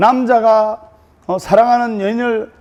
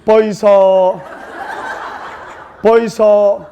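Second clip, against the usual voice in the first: blunt Gyeongsang; slower than usual. Retold or imitated. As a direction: call out bluntly then jab. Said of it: "경상도 신랑에게".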